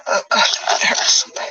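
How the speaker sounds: breathy whispered plea of pain. Retold or imitated. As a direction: whisper it as if hurt and scared. Retelling pain during the beating.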